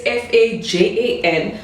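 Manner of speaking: F A J A N letter by letter; F A J A N said as separate letter names; spelled out. Shown as a demonstration. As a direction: spell out F A J A N, naming each letter. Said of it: "the spelling is".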